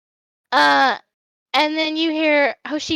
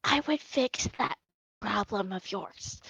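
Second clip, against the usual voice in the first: low hushed offer; leaning in, hushed; 6 semitones lower, 12 dB quieter than usual. Acted. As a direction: lean in and drop to a hush. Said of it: "leans forward and he goes".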